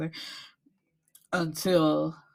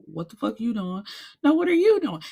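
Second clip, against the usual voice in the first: swelling from muttered to a sharp high yell; mock outraged quarrel; 3 semitones higher, 3 dB louder than usual. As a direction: play both sides of a room fight, rising to outrage. Retold quarrel over the room.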